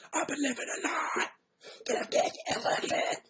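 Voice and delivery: breathy half-whispered lyric, unsure of words; mock whisper part. Singer mumbling lyrics she doesn't know, breathy mock whisper. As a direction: fake the whispered metal bit. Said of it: "my metal screamo".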